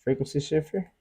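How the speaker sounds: warped shifted vocal; pitch-shifted voice. Shown as a demonstration. Demoing effect on voice.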